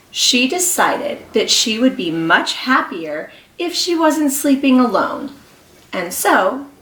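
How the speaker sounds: lively picture-book read-aloud; reading to children. Acted. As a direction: read to a class of small kids. Reads picture book to class.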